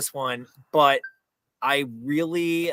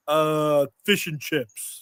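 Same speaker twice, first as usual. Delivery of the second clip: put-on monotone British accent; 2 semitones higher, much slower than usual. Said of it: "just in Kyle Monotone voice".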